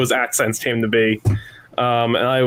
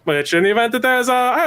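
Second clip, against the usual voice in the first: a light Connecticut accent, higher; 10 semitones higher, faster than usual. Shown as a demonstration. Actor keeps his Connecticut accent for the others, light Connecticut accent. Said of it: "that is the Connecticut-based accent".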